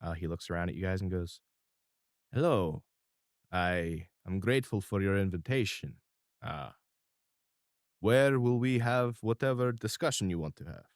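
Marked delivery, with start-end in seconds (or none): 2.3-10.8 measured, polite mob boss; calm and courteous but in charge; crime boss. Acted. Mister R greets the new tenants, politely in charge.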